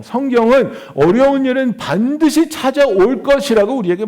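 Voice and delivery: emphatic sermon delivery; preaching. Real, not acted. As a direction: press the point on the congregation. Preaches on hardship to congregation. (힘주어 강조하는 설교조)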